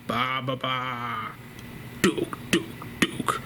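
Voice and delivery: low, hushed monster croak fading to breath; creepy Babadook call. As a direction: breathe the call out like it's hiding nearby. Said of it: "all of a sudden you hear".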